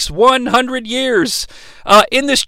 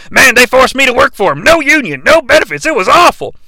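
Brains; 2 semitones higher than usual. Retold or imitated. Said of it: "he's like".

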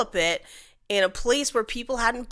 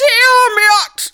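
frustrated shout; 12 dB louder than usual. Pretend. Acted frustration, high and loud.

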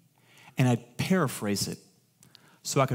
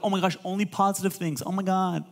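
a hint of valley girl; light valley girl gush; 5 semitones higher than usual. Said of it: "I love doing the Valley voice".

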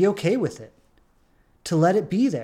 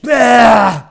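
sudden loud bah, dragged slowly; a mock outburst of letting it all go; exasperated burst; 3 semitones higher, 10 dB louder than usual. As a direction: blurt it out in a loud frustrated bah. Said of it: "And she's like".

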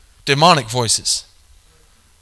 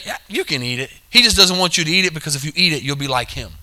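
hushed tempter; 2 semitones lower, 7 dB quieter, faster than usual. Retold or imitated. Satan voiced tempting.

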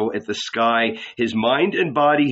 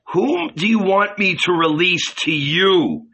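high-pitched call to a crowd; shouted question; 6 semitones higher, 3 dB louder than usual. A narrator's reading. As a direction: project it out over the mob. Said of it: "he shouted".

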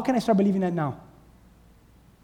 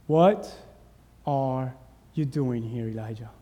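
low, hushed question, fading at the end; still small voice; 7 semitones lower, 5 dB quieter than usual. Acted. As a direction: say it softly and haltingly, sinking away. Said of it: "Still small voice".

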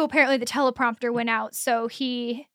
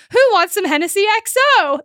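hammed-up party host; 7 semitones higher, 7 dB louder than usual. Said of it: "and he goes".

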